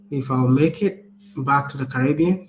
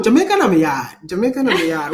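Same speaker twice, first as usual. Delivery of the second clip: attempted Jamaican accent; 3 semitones higher, 5 dB louder than usual. Speaker claims Jamaica as home to partner, attempted Jamaican accent. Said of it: "Say it with the accent".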